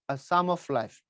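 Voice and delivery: "Sum" begun on a plain s sound, no P; silent P. Shown as a demonstration. Teacher names the English poem for students, silent P in "Sum". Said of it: "পি এখানে silent হবে".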